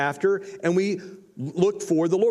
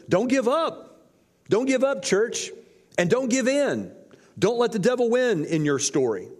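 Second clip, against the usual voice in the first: impassioned plea; 7 semitones higher than usual. Acted. Preacher urging church not to quit.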